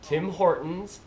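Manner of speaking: slow Canadian TIM HORTONS, tune rising; Canadian accent, draw out "Tim Hortons" as a question; practising Canadian accent. Shown as a demonstration. Vlogger practising "Tim Hortons", slow Canadian accent, rising. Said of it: "I'll practice".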